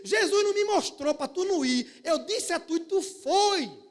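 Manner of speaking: loud, high, slow rebuke; Sister Lu scolding. Retold or imitated. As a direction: thunder it like a prophetess scolding. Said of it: "ele disse".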